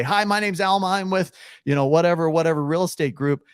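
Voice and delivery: high, chirpy salesy agent intro; bright pushy agent pitch said as the wrong way. Shown as a demonstration. Agent demoing the bad cold-call opener, high and salesy. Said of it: "I don't do that".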